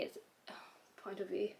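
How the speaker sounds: phrase broken by a hiccup and sigh. Real, not acted. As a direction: stumble through a hiccup.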